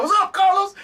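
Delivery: high, laughing call from the groundskeeper; shouted greeting. Retold or imitated. Grass cutter greeting Carlos, high laughing call. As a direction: hail him from across the lawn. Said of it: "somebody cutting grass will be like".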